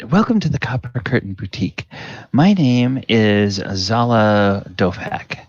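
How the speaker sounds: smooth, courteous boutique greeting; polished saleswoman. Acted. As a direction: welcome the shoppers like a practiced saleswoman. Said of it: "she will say".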